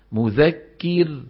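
"مذكر" with a light thin ra, dragged slow; thinned ra. Shown as a demonstration. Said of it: "ما بيصير يقول مذكر". (راء مرققة خطأ في "مذكر")

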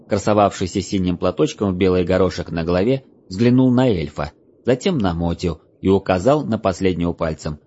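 ordinary delivery, nothing marked

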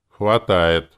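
a touch of self-importance; important. A narrator's reading. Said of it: "важно сказал Чаги".

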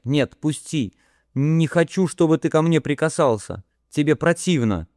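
rising panic, begging to be let go; distressed Harey. Acted.

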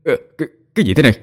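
fast, high panicked stammer; panicked cry. Acted. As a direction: stammer it out in sudden terror. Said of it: "hốt hoảng kêu lên".

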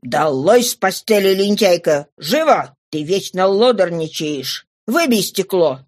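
stern, restrained bellow; thundering voice. Acted. Father rousts his younger daughter from bed, understated thundering command. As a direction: order the child out of bed, forcefully. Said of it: "и крикнул громовым голосом".

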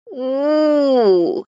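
pouty drawn-out oo; mild pouty oo; sulky whine. Acted. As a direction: whine like a sulking child. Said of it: "накуксилась Фейри".

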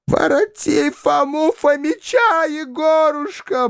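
put-on slow, high old woman's howl. A narrator's reading. Old woman howling at her son to bring Foma back. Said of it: "продолжала вопить старуха".

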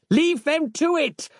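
high ringing battle yell; commanding war cry. A narrator's reading. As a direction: Harland shouts his men onward. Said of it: "yelled Harland".

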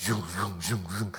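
repeated zooming noise; imitated restless whirring. Preacher showing a restless soul before God, mimicked whirring. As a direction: make thoughts zip past in little repeated bursts.

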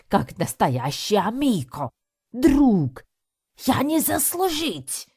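put-on Italian-accented lament. Balatelli laments betrayal to the animals, wailing Italian accent. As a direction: wail like a wronged Italian father. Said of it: "продолжил громко причитать".

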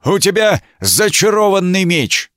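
ревёт обвинение, гораздо выше; проревел из-под шлема; рёв. A narrator's reading. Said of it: "он проревел в прорезь шлема". (рыцарь ревёт из шлема, обвиняя в зачарованном мече)

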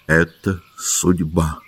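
slow, soft, thoughtful; the doctor quietly concludes; quiet remark. A narrator's reading. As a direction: weigh the words slowly. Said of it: "заметил он".

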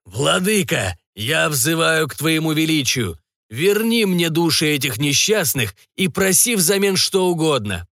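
high, slow summoning of a dark lord; pleased invocation. Acted. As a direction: call on the master with solemn pleasure. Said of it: "Готье довольно улыбнулся и заговорил".

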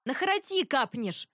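high, urgent warning; alarmed gasp. A narrator's reading. Ratibor stopping his brother setting mugs down, alarmed. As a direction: cry out to stop him. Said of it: "но Ратибор охнул".

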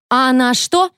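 high indignant shriek; bully shrieking at teacher, high. A narrator's reading. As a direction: squeal in outrage. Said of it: "взвизгнула Шейла".

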